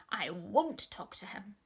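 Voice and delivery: a hint of cross growl; cross, growly voice. Sick little sister refusing the doctor, mildly cross growl. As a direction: grumble it crossly. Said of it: "in a cross, growly voice".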